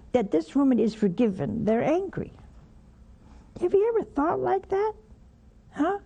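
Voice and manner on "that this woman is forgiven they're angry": usual speaking voice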